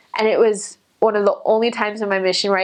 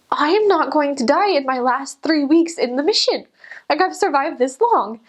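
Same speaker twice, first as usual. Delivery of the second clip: mock panic; 6 semitones higher than usual. Missionary arguing with the Spirit in mock panic. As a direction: dig in, half joking, terrified. Refusing the prompting again.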